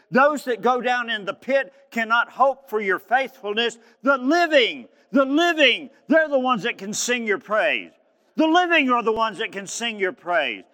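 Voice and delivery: high, loud, fervent pulpit cry; shouting out. Retold or imitated. Preacher imitating a man praising God, shouting out. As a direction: proclaim it at full force, peaking on the repeated phrase. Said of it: "you're gonna be shouting out like this man".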